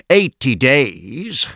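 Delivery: slow, drawn-out doubtful echo; stretched out, rising sceptically at the end; sceptical concession. Acted. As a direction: concede it slowly, with doubt left hanging. Sceptic grudgingly repeats Fogg's claim.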